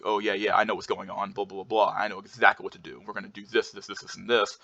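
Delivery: mildly assertive, matter-of-fact delivery; understated take-charge tone; authoritative and direct. Shown as a demonstration. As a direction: sound like you know exactly what to do. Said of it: "he's very authoritative. He's talking to me in a, in a direct".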